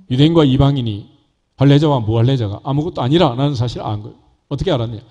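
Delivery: ordinary talk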